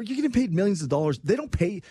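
heated insistence. Real, not acted. Arguing with co-host.

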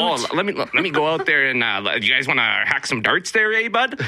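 imitating a Canadian hockey guy; mock Canadian accent. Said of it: "like, the hockey speak".

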